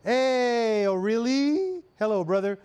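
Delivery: high, breezy California surfer voice; jokey California dude greeting; California accent. Pretend. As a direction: play up a laid-back California accent. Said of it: "I'll keep my California accent instead".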